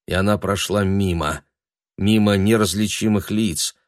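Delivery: plain reading voice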